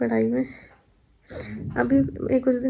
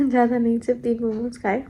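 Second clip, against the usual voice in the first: giggling, quicker repeat; laughing confession. Real, not acted. Confessing to viewers about momos, sheepish laughing repeat.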